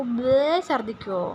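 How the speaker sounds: drawn-out mock retch; slow, playful retching imitation; imitated vomiting. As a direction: echo the child's throw-up noise, stretched out. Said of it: "ദേ ഇങ്ങനെ ഛർദ്ദിക്കും".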